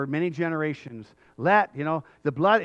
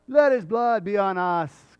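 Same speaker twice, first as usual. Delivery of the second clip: dare; 3 semitones higher, 4 dB louder, slower than usual. Acted. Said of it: "that was really a dare".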